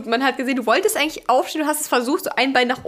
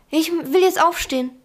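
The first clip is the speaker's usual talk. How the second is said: leicht quengeliger, höherer Schlafwandler; genervt nachgemacht; 4 semitones higher than usual. Retold or imitated. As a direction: den genervten Partner im Halbschlaf nachmachen. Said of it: "Sagt richtig genervt auch". (genervt nachgeäfft)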